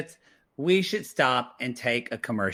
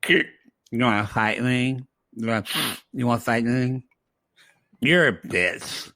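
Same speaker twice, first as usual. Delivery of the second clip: put-on drunk Charlie; 4 semitones lower than usual. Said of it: "basically Charlie's like".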